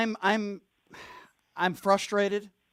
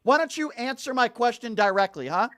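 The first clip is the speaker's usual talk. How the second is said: angry demand; 3 semitones higher, 4 dB louder than usual. Real, not acted. Host demands direct answer.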